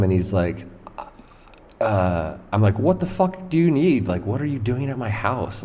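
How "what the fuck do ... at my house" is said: retold annoyed challenge, pitched up; not happy. Startled resident to stranger at the door, not happy. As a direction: confront an intruder, starting high and easing down. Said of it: "I was not happy".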